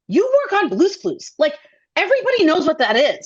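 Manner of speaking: mock amazed she doesn't know; incredulous friend. A friend at the reunion scolding her, in a high, incredulous voice.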